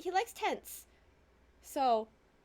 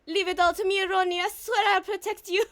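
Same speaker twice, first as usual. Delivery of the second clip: put-on high, loud French-accented vow; terrible French accent; 5 semitones higher, 6 dB louder than usual. Desiree promising to protect Ronnie, high loud French accent. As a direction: swear it boldly in a bad French accent. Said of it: "is my terrible accent".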